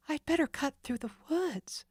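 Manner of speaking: decide in a hurry; Nancy deciding. Acted. Nancy planning her escape, hurried. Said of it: "she decided".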